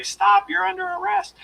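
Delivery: a nervous rookie squeaking an order; squeaky high voice. Retold or imitated. Rookie cop squeaking at a suspect, voice too high. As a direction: voice cracks up high, weak command. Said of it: "my voice just went really high".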